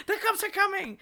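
high-pitched warning through laughter; laughing warning. Retold or imitated.

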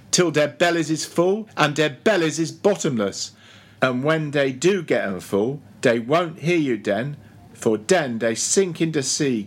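lightly voiced dialect-speaking cook, giving up; exasperated old cook Fleece. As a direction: grumble in dialect that preaching is useless. Fleece complains about the sharks to Stubb.

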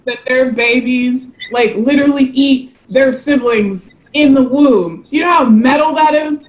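high, animated gushing about sharks; excited. Real, not acted. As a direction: rave about how metal sharks are. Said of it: "sharks are so cool".

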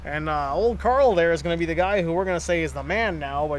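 lightly voiced old-time detective; a hint of a forties gumshoe patter. Telling the Ben Johnson doping story, lightly voiced forties detective. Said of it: "you sound like a detective from the nineteen forties".

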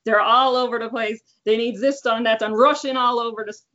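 chatty Newfoundland mom on the phone; Newfoundland accent. Shown as a demonstration. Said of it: "give us a little Newfoundland accent".

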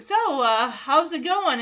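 imitating an awkward greeting; mock-awkward small talk with a filler pause. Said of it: "it gets even more awkward".

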